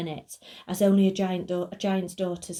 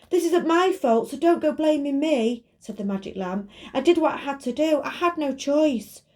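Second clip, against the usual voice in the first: defensive magic lamp voice; 7 semitones higher, 4 dB louder than usual. Acted.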